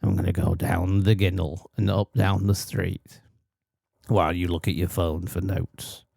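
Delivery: a Northern English accent; lightly put-on Northern English accent; northern working-class accent. Shown as a demonstration. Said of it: "You talk like this".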